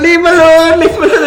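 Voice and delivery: high, loud frantic yell at the police; sister shouting. Retold or imitated. Sister yelling at police dragging her brother, high frantic shout. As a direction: scream at them to let her brother go. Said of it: "and she's going".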